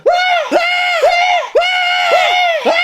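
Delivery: repeated short screams of shock; horrified screams. Acted. Parents look at the report card, horrified screams. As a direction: scream in mock horror.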